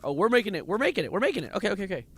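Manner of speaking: high, loud rising hope; excited relief. Real, not acted. Streamer realizing the sub will fit, excited relief. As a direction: cheer yourself through it. Escaping the tight spot.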